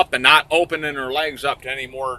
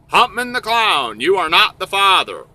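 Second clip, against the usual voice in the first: higher-pitched mock announcement; show host verdict; 5 semitones higher than usual. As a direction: proclaim it like a talk-show host. Acting out show host's verdict.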